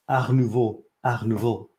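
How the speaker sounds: Art Nouveau with a French throaty r; pretentious French accent. Shown as a demonstration. Vlogger tries it the French way, pretentious French accent. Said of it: "with a pretentious French accent".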